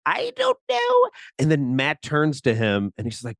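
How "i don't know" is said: very high, slow mock Russian; hammed-up, squeaky bad Russian accent; horrible Russian accent. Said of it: "talking to this horrible Russian accent".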